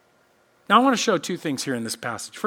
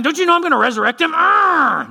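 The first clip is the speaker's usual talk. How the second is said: higher, louder, fast impatient scolding; mock exasperated; 9 semitones higher, 6 dB louder than usual. Preacher voicing a hypothetical annoyed Jesus, fast mock scolding. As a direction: rattle it off like a fed-up teacher. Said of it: "Is he mad 'cause they're all crying".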